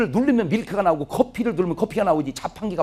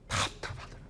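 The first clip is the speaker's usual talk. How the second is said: whisper; 14 dB quieter than usual. Real, not acted. Recalling painful memory.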